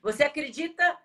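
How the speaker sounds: loud laugh over the words; can't stop laughing mid-sentence. Real, not acted. Still laughing at guest.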